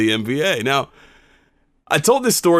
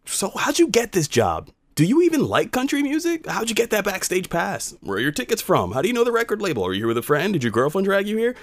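high-pitched skeptical questioning; mock-curious gatekeeper, pitched up; imitated prying; 9 semitones higher than usual. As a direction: pile up doubting questions in a raised pitch. Imitating suspicious questions at work.

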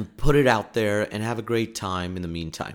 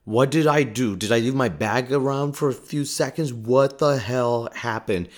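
mock panic, a little louder; slowed, worried inner voice; panicked thoughts; 2 semitones higher, 4 dB louder than usual. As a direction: replay the alarm of finding a bomb in your bag. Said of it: "And I thought".

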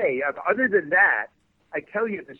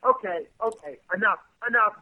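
mock exasperated outburst, higher pitched; retold blow-up; 5 semitones higher than usual. Actor retells the star halting his audition, mock blow-up. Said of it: "finally he blew up".

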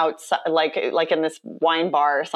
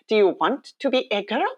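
put-on raised child voice with Icelandic accent; 4 semitones higher, faster than usual. Little girl asking a drag queen, imitated Icelandic accent. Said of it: "she's in her little Icelandic accent".

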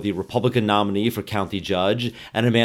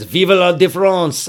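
French phrase; 8 semitones higher, 5 dB louder than usual. Retold or imitated. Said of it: "He says".

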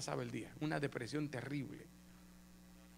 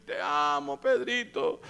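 loud, exaggerated doting voice; the Lord; 10 semitones higher, 7 dB louder, much slower than usual. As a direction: play an adoring master, drawing out the words. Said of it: "le dijo el Señor a Pedro".

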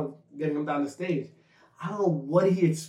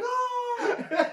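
mock crowd holler; 4 dB quieter than usual. Imitating crowd reaction.

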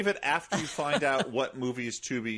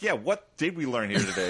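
mock-skeptical comeback in own voice; skeptical echo. Viewer answering the movie teacher back, mildly skeptical. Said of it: "And I'm like".

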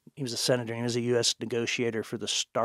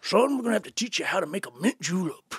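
a hint of a folksy old senator; old Southern senator; 6 semitones higher than usual. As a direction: play Strom Thurmond teaching a boy, a bit higher. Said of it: "he goes".

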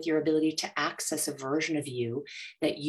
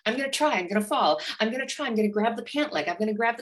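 put-on high, eager baby, fast; excited baby voice; 4 semitones higher than usual. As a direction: play the thrilled toddler.

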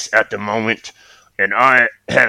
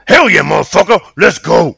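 loud hyped cheer; excited shout; 7 semitones higher, 6 dB louder than usual. Acted. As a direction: whoop it up. Cohost hyped reply.

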